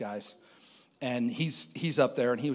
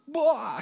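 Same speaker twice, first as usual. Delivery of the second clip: sudden high mock wail; high, loud imitation of breaking down; imitated burst of sobbing; 6 dB louder than usual. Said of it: "she busts out sobbing".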